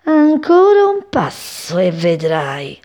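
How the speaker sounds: a hint of a predator waiting to pounce; sly cat threat. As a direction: tempt the bird closer, slowly. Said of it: "E il gatto pensava".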